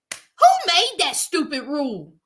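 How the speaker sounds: mock-defiant complaint; defiant outburst. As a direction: rant like a sulky grown daughter. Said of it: "came out her lips and said".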